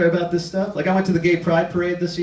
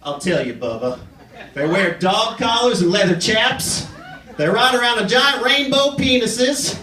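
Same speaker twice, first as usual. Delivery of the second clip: redneck voice; 2 semitones higher than usual. Retold or imitated. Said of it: "I can see the conversation".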